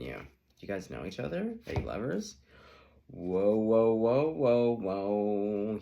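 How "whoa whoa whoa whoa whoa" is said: loud, amazed whoas; loud astonished whoa; surprised whoa. Real, not acted. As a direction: react to a surprising card. Reacting to drawn card.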